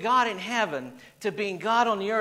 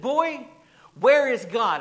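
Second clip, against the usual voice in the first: loud, high stern demand, finger wagging; raised voice; 4 semitones higher, 8 dB louder, slower than usual. Retold or imitated. Preacher retelling the clergyman shouting at the boy, loud and high. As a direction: bark the question at the boy. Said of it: "raised his voice even more".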